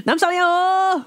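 "Namsayo!" called out high as a cheery Korean hello; Korean greeting. Retold or imitated. Comedian greeting her husband: high cheery "Namsayo!". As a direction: sing out "Namsayo!" with a falling tune. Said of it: "That's how they say".

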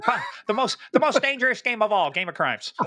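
booming high announcer intro; Derek Maltz invitation. Retold or imitated. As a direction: hype it like a show host. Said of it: "that's my Derek Maltz invitation".

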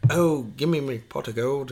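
badly faked Irish leprechaun accent; mock Irish leprechaun. Shown as a demonstration. Trying Irish for friend, hammed-up Irish leprechaun accent. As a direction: play a cartoon Irish leprechaun. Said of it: "What's Irish?".

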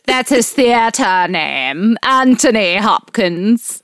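drawn-out mock-theatrical delivery; affected theater name. Host teases co-host over Anthony Hopkins' name, mock-theatrical. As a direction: slowly savour the name as if on stage.

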